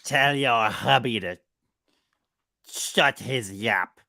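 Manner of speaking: slow, hammed-up Yorkshire accent; an American's stab at broad Yorkshire, drawn out; mock Yorkshire accent. Wife mocking husband's phrases in a hammed-up Yorkshire accent. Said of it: "This is a dumb American interpretation".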